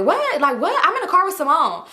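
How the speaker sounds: imitating an embarrassed protest; mock flustered. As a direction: act caught out and covering fast. Acting her flustered cover on phone.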